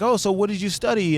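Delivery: high-pitched show of interest; retold eager small talk. Getting to know the Dutch pair, retold eager interest. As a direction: lift it high, chatty and curious.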